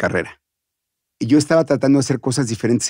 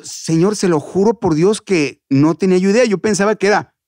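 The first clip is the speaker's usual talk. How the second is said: bewildered pleading; 5 semitones higher than usual. Acted. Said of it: "yo, pero perdido".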